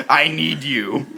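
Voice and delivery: real laugh leaking into the line; breathy giggle under the words; laughing through it. Real, not acted. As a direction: try to say it straight but giggle. Reader laughing through the quote.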